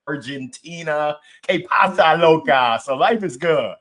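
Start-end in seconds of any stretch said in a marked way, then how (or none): 1.5-2.8 playful Spanish greeting. Pretend. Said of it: "he just called his wife".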